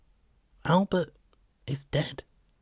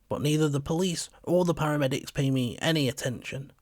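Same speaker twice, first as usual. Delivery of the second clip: plain reading voice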